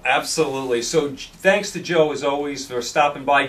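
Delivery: hoarse, worn-out voice; losing voice. Real, not acted. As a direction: voice nearly gone, straining. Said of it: "I really am losing my voice here".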